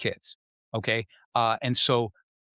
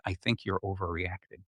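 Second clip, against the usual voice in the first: quiet calm reply; 5 semitones lower, 7 dB quieter than usual. Retold or imitated. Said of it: "like, really quiet".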